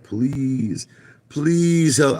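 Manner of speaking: high-pitched imitation of begging; mock tearful pleading. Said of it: "they're crying and they're like".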